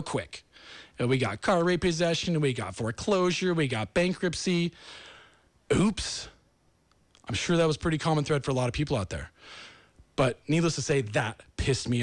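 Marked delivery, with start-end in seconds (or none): 5.7-6.3 whispered oops. Real, not acted. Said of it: "self-aware aside".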